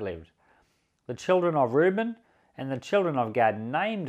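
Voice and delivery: measured, formal Bible reading; steady public reading of scripture. Acted. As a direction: read the passage aloud to the congregation.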